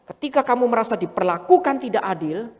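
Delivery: usual speaking voice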